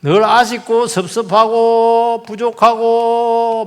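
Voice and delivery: slow, drawn-out whining grumble; 늘어지게 투덜대듯; whiny complaint. Retold or imitated. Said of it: "그럼 늘 아쉬워". (불평하는 말투로 느리게)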